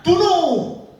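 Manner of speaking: king repeating his death sentence; shouted order. Acted. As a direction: shout the kill order again. Saul orders execution again.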